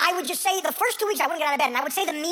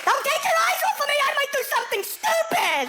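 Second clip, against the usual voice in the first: put-on much higher, pleading and childish; whiny mock addict voice; 11 semitones higher than usual. Comic mocking himself tied up in the supermarket, high and whiny. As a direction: whimper like a helpless patient.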